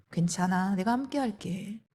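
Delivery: soft, comforting murmur; tender reassurance. Retold or imitated. Husband comforting his anxious wife, tender reassurance. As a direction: reassure quietly, as if holding her hand.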